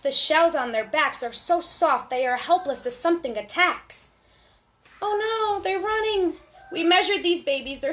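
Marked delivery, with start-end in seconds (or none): 5.0-6.3 excited surprise. Real, not acted. Reacting to baby turtles.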